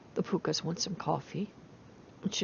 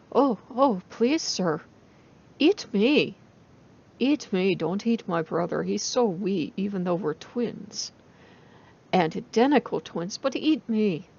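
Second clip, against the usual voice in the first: pleading rabbit; 4 dB louder than usual. Acted. Rabbit begs fox to spare brother.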